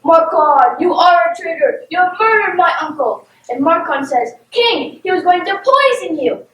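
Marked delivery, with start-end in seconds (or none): 0.0-3.3 storybook king's accusing cry; raised-voice royal accusation; acted yell. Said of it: "and the king yells". 4.5-6.4 higher, acted urgent protest; dramatic self-defence; urgent warning. Acts out a warning to king.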